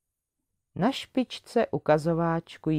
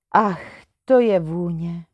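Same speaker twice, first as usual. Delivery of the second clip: louder, thrilled gasp of delight; delighted exclaim; 5 dB louder than usual. Acted. Růženka smells the rose and exclaims, delighted. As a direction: breathe it out in wonder. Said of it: "zvolala Růženka".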